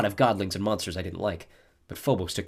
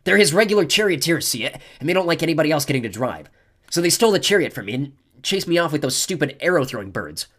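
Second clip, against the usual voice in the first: Clarice's voice; 7 semitones higher, 7 dB louder than usual. A narrator's reading. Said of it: "she corrected".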